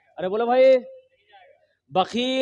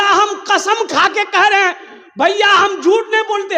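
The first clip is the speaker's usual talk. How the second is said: indignant protest; 8 semitones higher, 6 dB louder than usual. Acted. Cheat loudly swears innocence.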